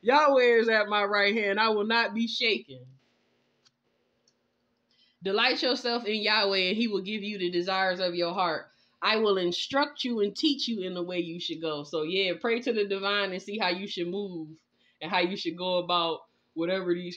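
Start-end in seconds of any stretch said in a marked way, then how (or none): 5.2-11.8 scripture reading. Acted. Reads scripture.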